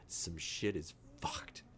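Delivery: slow hushed whisper; mock scared whisper. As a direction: breathe it like a terrified secret. Voicing the scared dog.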